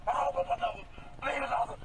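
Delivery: high, panicked begging; distressed pleading. Real, not acted. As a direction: beg in real distress. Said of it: "he's clearly already quite distressed".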